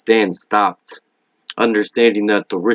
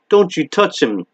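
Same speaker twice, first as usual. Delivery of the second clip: scream; 8 semitones higher than usual. Acted. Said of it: "she screamed at the spider".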